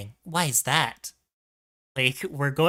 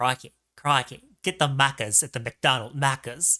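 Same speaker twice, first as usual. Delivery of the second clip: put-on Australian accent. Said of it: "I can't get my Australian out".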